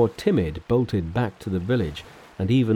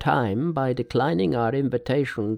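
a hint of worried old hosts; brothers Chun; 5 semitones higher than usual. Brothers Chun speak to Tripitaka.

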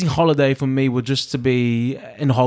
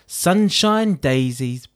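put-on English accent as Ron Weasley; 3 semitones higher than usual. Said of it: "That was my English accent".

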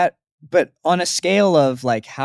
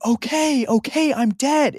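giving up instantly; 12 semitones higher than usual. Retold or imitated. Quoting larper giving up instantly.

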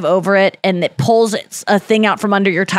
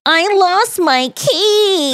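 sheepish confession; 9 semitones higher, much slower than usual. Retold or imitated. Confessing lost keys to staff.

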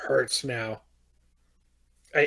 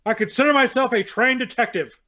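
dramatic reading. Acted. Reads the book's diary entries.

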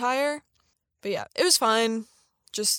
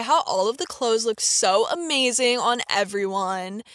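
creaky vocal fry, retail-clerk style. Shown as a demonstration. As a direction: drag the words out in vocal fry. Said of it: "kinda like this".

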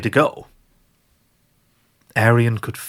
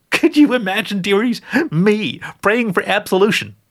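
put-on higher, cooing old grandma witch; a doting old witch sharing her recipe; sweet old witch; 10 semitones higher than usual. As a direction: croon it like a kindly granny who bakes angels. Gertrude mocking herself.

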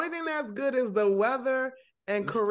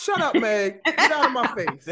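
loud teasing get out; playful yelling; 6 dB louder than usual. Real, not acted. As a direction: shout her down, half joking.

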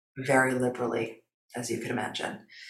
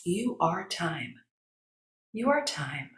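soft, slow affirmation, pitched higher; soothing self-talk; 4 semitones higher, 7 dB quieter, slower than usual. Acted. Guest shows what she'd tell herself after breathing, soothing and soft. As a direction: murmur it gently to yourself. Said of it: "I would say to myself".

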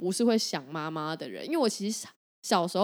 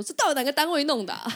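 higher, half-laughing huffy complaint; mock-indignant adult; 7 semitones higher than usual. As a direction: play a fed-up grown-up demanding answers. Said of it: "拿出社会人士的态度".

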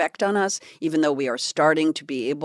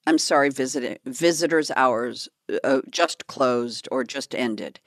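low flat guard voice; 5 semitones lower, 3 dB quieter than usual. Retold or imitated. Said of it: "the security guard said".

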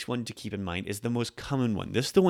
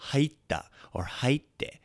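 whispered forms; 5 semitones higher, much slower than usual. Shown as a demonstration. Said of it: "we put it into past tense".

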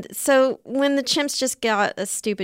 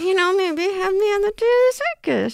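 high, strained hint; through clenched teeth; 10 semitones higher than usual. Acted. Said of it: "You don't need to say it through clenched teeth".

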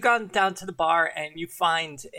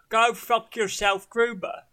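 bad impression; 4 semitones higher, 4 dB louder than usual. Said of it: "I'm not good at impressions".

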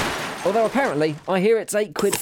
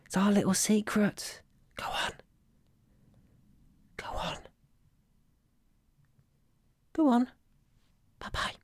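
sly honeyed whisper; 4 semitones higher, 6 dB quieter than usual. Pretend. Coaxing listener to binge secretly.

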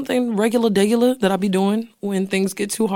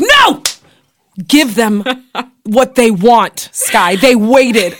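louder, bossy cousin; mock loud scolding; 5 dB louder, slower than usual. Cousin retelling being told to give fans a long season, mock scolding. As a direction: bark the order at Sky. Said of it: "she slaps me and she's like".

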